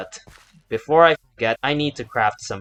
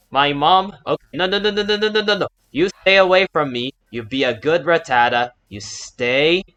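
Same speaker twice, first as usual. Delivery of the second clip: panicked pleading; 5 semitones higher, 5 dB louder than usual. Real, not acted. Warding off an attacking Rattata.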